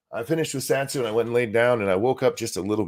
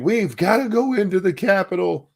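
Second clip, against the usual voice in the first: rally call; 9 semitones higher than usual. Retold or imitated.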